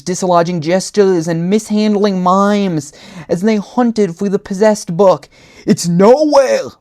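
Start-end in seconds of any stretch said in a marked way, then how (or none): 5.6-6.7 higher, louder, slow drawn-out call. A narrator's reading. Bowtie calls to his coworker over the clowns, loudly. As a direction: call across a noisy crowd. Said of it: "Bowtie called to his coworker".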